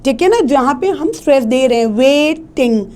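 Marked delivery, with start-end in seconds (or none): 2.0-2.8 "waiting" rising on long "wai", coming down on "ting"; rise and fall. Shown as a demonstration. Teacher showing where voice rises, "waiting" up then down. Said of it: "वे ऊपर जा रहा है".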